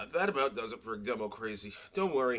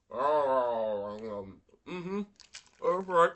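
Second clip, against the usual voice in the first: gleeful; 4 semitones higher, 13 dB louder, slower than usual. Real, not acted. Excited about Bluey fruit snacks.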